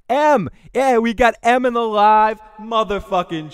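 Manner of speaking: loud, high, effected hype shout; digital voice effect. Acted. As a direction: announce it through a voice effect. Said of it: "I just use simple, digital effects".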